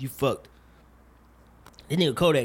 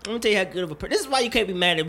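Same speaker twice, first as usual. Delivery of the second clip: rushed speech; 4 semitones higher, much faster than usual. Real, not acted. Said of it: "this espresso really got me talking really, really fast".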